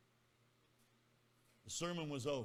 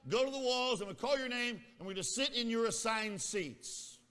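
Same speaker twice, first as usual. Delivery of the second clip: teacher; 6 semitones higher, 6 dB louder than usual. Retold or imitated. Teacher voiced giving instructions.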